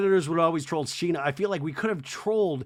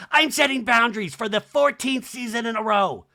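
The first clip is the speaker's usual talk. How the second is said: mock Kyle; 6 semitones higher, 3 dB louder than usual. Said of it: "I love Kyle's like".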